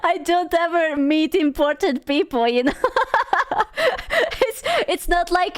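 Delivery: giggling high through an embarrassed apology; laughing embarrassed. Real, not acted. Streamer laughs off sounding parasocial about Esfand, giggling. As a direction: laugh it off sheepishly. Laughing at own awkward comment.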